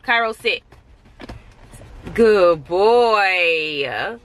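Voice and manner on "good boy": long, drawn-out doggy praise; praising the dog. Real, not acted. Owner to her sitting dog, drawn-out praise. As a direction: stretch it out to praise a pet.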